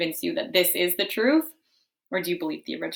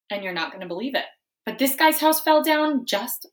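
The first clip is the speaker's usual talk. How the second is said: wolf narrator; 5 semitones higher, 5 dB louder than usual. Acted. Wolf narrates his story.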